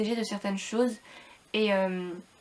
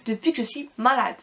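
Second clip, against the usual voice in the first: robot-like voice from being ill; sick robotic voice; 4 dB louder than usual. Real, not acted. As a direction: talk with a flat, sick, robotic voice. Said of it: "On dirait que je parle comme un robot".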